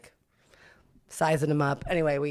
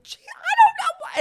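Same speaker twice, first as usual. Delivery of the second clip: very high, loud giggling dodge; high giggly mock innocence; coy laugh; 11 dB louder than usual. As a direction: laugh off the question coyly. Coy evasive reply.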